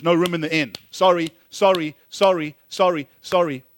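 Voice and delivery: acted rejection, each sorry punched out; repeated refusal. Landlords turning away a family seeking rentals, firm mock refusals. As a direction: imitate brisk, firm brush-offs, one after another.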